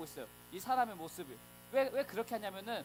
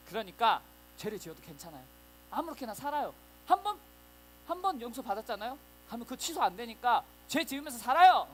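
louder, urging false teacher; pushy liar; 6 dB louder than usual. Acted. A liar urging believers to sin, louder pushy pitch. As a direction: whip up the crowd with a lie. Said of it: "어떤 거짓말쟁이가 찾아오는 거예요".

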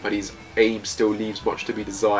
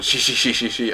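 imitated snickering laugh. Imitating a character's manga laugh.

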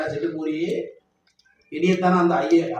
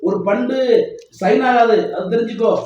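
raised, emphatic ultimatum; higher-pitched, forceful banter; declaring a warning; 3 semitones higher, 4 dB louder than usual. Real, not acted. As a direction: lay down the law to the family. Warns the family no funds pass.

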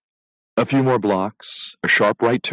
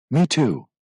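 smiling; 7 semitones higher than usual. A narrator's reading. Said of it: "Louisa agreed, smiling".

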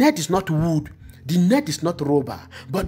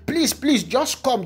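high, urgent mock plea; higher-pitched acted pleading; pleading fishermen; 6 semitones higher than usual. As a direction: imitate fishermen begging others over. Acting out fishermen calling for help.

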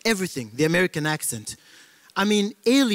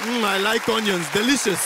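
cheerful African; 3 semitones higher than usual. Acted. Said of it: "You tell an African chapamati, he will say".

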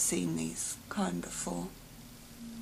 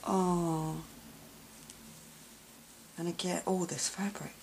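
usual speaking voice

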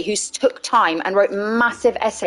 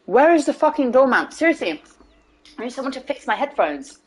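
demanding diva, higher on the question; diva mood; 3 semitones higher than usual. Pretend. Streamer demands someone fix the headphones, diva mood. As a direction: play the put-out diva calling for staff. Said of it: "feeling in a very diva mood".

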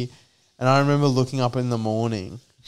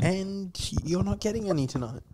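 mock girlfriend; 8 semitones higher, 6 dB quieter than usual. Mocking girlfriend's threat.

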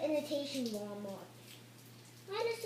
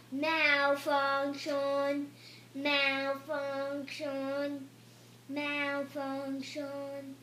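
robotic error message; much slower than usual. Pretend.

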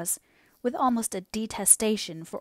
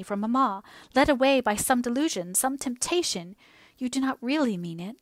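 passionate entreaty; 2 semitones higher than usual. Acted. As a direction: beg him to say it isn't true. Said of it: "cried she with sudden passionate entreaty".

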